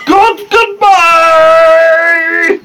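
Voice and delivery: high, loud Kermit the Frog sign-off; sing-song Kermit goodbye. Acted. Host does a Kermit farewell to listeners. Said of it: "I'm Kermit".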